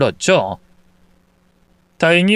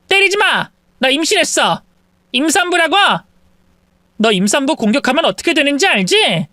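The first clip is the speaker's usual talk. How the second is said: higher, shrill-edged plea to stop; panicked mistress; 10 semitones higher than usual. Acted. Mistress shielding herself by claiming pregnancy, panicked. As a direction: cry out to stop her.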